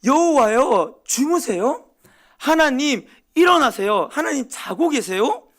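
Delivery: high, loud urgent call to wake God; crying out to God. Retold or imitated. Psalmist crying out to a silent God, loud high plea. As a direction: shout up to God as if rousing him. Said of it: "이런 외침을 하고 있는 겁니다".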